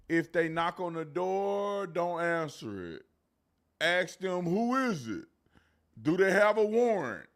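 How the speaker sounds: mock baby talk. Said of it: "talking like she's talking to little babies".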